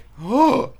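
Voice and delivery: sharp high imitated gasp; retold gasp. Press box reacting to the catch, gasping. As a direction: gasp in disbelief. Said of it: "it was just like".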